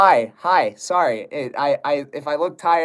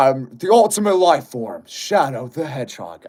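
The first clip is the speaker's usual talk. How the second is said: Shadow voice; 3 semitones lower than usual. Pretend. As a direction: push a bit harder on the Shadow line. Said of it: "Make Shadow voice".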